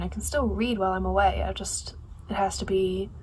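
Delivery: breathy unvoiced whisper. Real, not acted. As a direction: drop to a secret whisper. Quiet aside to camera.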